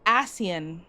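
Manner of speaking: "Asian" said as ASS-ee-un, three syllables; corrected pronunciation. Shown as a demonstration. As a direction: open "Asian" with a short a, then see-un. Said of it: "Well, I was wrong".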